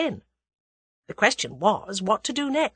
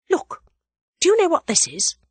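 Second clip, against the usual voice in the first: dramatic; 11 semitones higher, 5 dB louder than usual. A narrator's reading. Dramatic reveal to boy.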